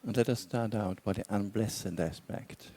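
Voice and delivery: measured meditation guidance with long pauses; guided meditation. Real, not acted. Teacher guiding meditators to relax and explore intentions, guided meditation. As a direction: guide them unhurriedly, leaving long silences between phrases.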